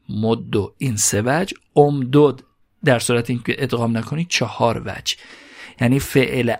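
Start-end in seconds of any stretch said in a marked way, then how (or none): 0.1-0.7 "مدو" ending in a short "o"; damma ending. Shown as a demonstration. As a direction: say "مدو" as moddo, doubled d. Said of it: "هم ضمه بگیره".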